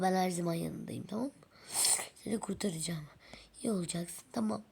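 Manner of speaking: whispered comforting words; mother doll gently comforting her injured daughter. Pretend. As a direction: soothe the hurt little one gently. Mother doll comforts hurt child.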